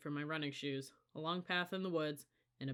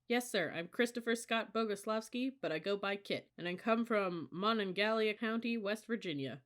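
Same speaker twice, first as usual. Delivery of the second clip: eager cadet, higher-pitched, light Southern lilt; slight southern accent; 5 semitones higher, 3 dB louder than usual. A narrator's reading. New cadet introducing himself to his senior, slight Southern accent. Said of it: "He had a slight southern accent".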